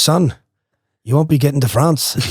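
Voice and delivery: lightly imitated English accent; Pommy English accent. Boat captain turning down the swimmer, mock English accent. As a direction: put on a mild English accent. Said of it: "in the Pommy English accent".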